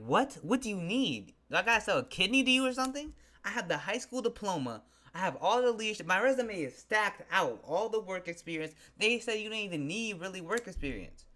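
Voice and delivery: indignant venting, pitched well up; exasperated rant. Acted. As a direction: plead your case in high-pitched disbelief. Venting at employer who ignored him.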